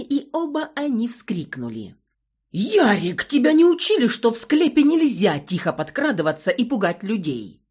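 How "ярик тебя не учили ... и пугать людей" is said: much louder, higher frightened yell; scared yelling. A narrator's reading. Karl startled in the crypt, yelling at Yarik in fear. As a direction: bawl at him out of fright. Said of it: "заорал от страха Карл".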